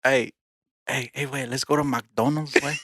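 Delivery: playful put-on Mexican accent. Inviting a buddy to McDonald's, playful Mexican accent. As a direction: ham up a light Mexican accent. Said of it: "We got different accents now".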